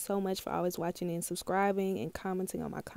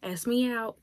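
a rapper's voice; 3 semitones higher than usual. Retold or imitated. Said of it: "a rapper's voice".

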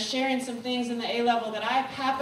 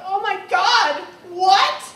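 surprised; 7 semitones higher, 10 dB louder, slower than usual. Retold or imitated. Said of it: "They were like".

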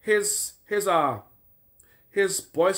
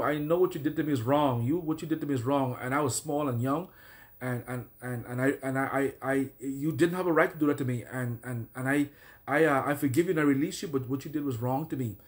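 sincere forgiveness. Shown as a demonstration. Preacher modelling what listeners say to their abuser, earnest and halting. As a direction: speak to the abuser plainly and sincerely. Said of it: "and you say it with passion".

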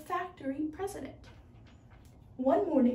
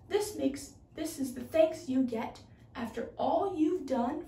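angry. Acted. Helper protesting the firing of Anatole, mildly angry. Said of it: "spoke angrily".

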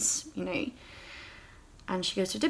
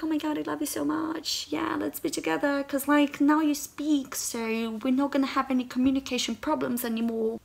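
put-on gushing girl; 5 semitones higher than usual. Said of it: "she's like".

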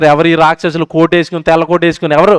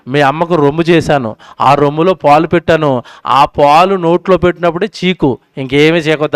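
God speaking tenderly; 5 semitones lower than usual. Retold or imitated. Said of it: "దేవుడు చెవిలో వాడికి ఒకటి చెప్పి పంపించాడు".

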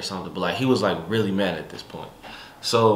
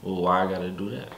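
calm, nice voice; 6 dB quieter than usual. Retold or imitated. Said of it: "Calm, nice voice".

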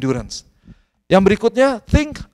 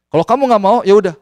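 stern father; 3 semitones higher, 3 dB louder than usual. Retold or imitated. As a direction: imitate a firm dad giving up on arguing. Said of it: "saya suka agak keras memang". (menirukan ayah yang agak tegas)

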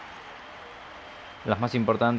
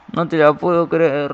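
outraged disbelief; 4 semitones higher, 6 dB louder than usual. Real, not acted. Goalie saves with special power.

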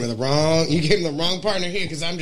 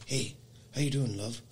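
mock English accent; 4 semitones lower, 13 dB quieter than usual. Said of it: "he's from England, by the way".

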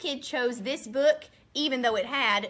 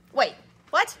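surprised; 2 semitones higher, 6 dB louder than usual. Acted. Reader shocked by nonsense word.

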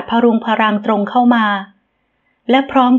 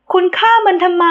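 high-pitched cry of shock; shrieking question; 8 semitones higher than usual. A narrator's reading. Ramita shrieks at the man who shot it. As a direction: shriek it at him in horror. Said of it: "หล่อนกรีดเสียง".

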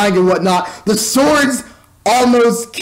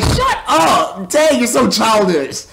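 high, drawn-out mock yell; exasperated scolding; 3 semitones higher, slower than usual. Reviewer telling off a childish cartoon character, mock exasperated yell. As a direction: tell him off in exaggerated exasperation.

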